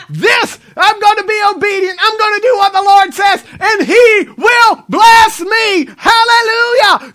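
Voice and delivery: high, loud mock rejoicing; imitated excited shouting. Preacher mimicking believers thrilled at a blessing, excited shouting. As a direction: whoop it up like an overexcited believer. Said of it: "get all excited and they shout".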